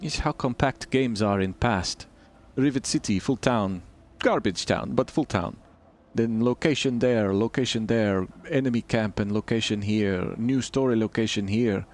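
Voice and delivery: put-on a light, generic Eastern European accent with broken English; mild put-on Eastern European accent with clipped grammar; bad Eastern European accent. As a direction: keep up a hammed-up Eastern European voice. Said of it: "Oh, bad accent time".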